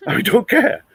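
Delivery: laughs it off, slow and high; laughing. Real, not acted. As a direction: chuckle through a slow, careless dismissal. Laughing dismissal of black voters.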